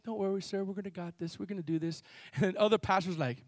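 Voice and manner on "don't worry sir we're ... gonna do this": imitated calm reassurance. Pastor reassures the fire marshal, imitated soft calm. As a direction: soothe an official quietly.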